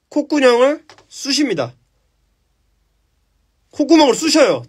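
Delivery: excited telling. A narrator's reading. Excited climax of story.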